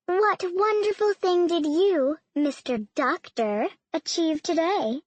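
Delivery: high, slow chirping question; chirpy. A narrator's reading. Mother quizzing her daughter's doctor boyfriend at dinner, chirpy. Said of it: "Missus Hastings chirped".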